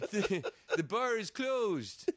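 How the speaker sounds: slow, laughing through the barmaid's words; laughing through quote. Retold or imitated. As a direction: quote her while cracking up, slowly. Lady calming nephew in a bar.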